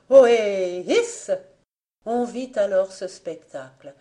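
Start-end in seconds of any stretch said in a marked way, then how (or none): 0.1-1.3 heave-ho shout to pull a rope; sailors' hauling cry. A narrator's reading. Fanta hauling on the well rope, crying like sailors. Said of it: "en criant comme font les marins".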